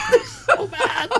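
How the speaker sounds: words squeezed out through a laugh. Real, not acted. Laughs about angry namesakes.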